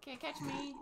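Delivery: high, loud taunting bird voice; mocking bird voice. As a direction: jeer like a cheeky bird escaping. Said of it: "she's yelling at her".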